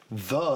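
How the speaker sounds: the with a short UH vowel; the pronounced thuh, not thee; unemphatic THE. Shown as a demonstration. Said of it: "That's why I say the".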